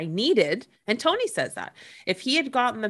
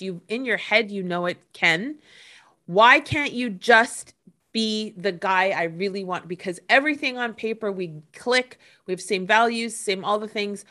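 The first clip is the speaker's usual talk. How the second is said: frustrated outburst; 3 dB louder than usual. Retold or imitated. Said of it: "this is the anger that pops up".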